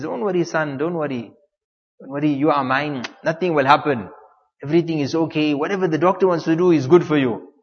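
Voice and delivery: hushed, low "it's all right" tone; retold reassurance. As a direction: soothe a frightened son, gently. Father reassuring his frightened son.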